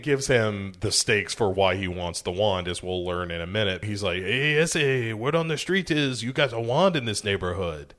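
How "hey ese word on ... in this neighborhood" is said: put-on Chicano gang accent. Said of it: "your only impression for Hispanic people".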